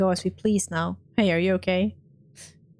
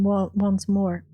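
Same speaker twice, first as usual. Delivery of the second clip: ordinary delivery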